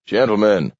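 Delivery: mildly pleading appeal. A narrator's reading. Mayor to quarrelling aldermen, pleading. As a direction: appeal for order. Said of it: "pleaded the mayor".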